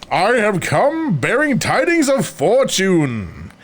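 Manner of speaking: slow, grand stranger's proclamation; mysterious stranger voice. Acted. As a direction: intone it like a mystic.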